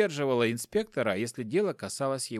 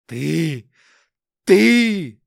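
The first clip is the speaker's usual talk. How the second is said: choking with rage; 3 semitones higher, 12 dB louder than usual. Acted. Hopkin confronts his wife, gasping furious shout. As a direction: spit it out breathless with fury. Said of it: "задыхался инспектор".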